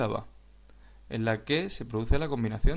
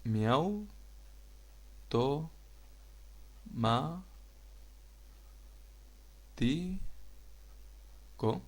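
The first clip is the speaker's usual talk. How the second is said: miau, to, ma, ti, co split into separate syllables with long pauses; 2 semitones higher, 7 dB quieter, much slower than usual. Shown as a demonstration. Teacher breaks the word into syllables for the class, slow and separated. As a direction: spell out each syllable of miau to ma ti co with gaps. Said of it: "de la palabra se".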